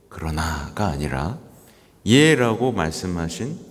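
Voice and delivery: even, level-pitched recitation; solemn formal reading. Acted. Priest reading the pope's words to the congregation, formal recitation. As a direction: read out a papal reflection in measured phrases.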